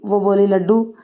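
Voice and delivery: plain reading voice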